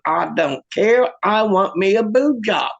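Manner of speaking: slow, stubborn demand; insistent wife. Acted. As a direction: dig in and draw it out. Acted wife insists on her demand.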